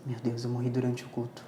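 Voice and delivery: quiet realisation. Retold or imitated. Speaker retelling dawning realisation of dying mid-service, quiet stunned voice. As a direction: say it under your breath, taking it in.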